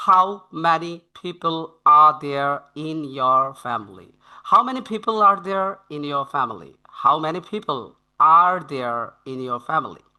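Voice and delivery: very slow, every word spelled out for learners; slow model reading. Shown as a demonstration. Teacher reads the first sentence slowly to students. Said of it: "এখানে প্রথম sentence".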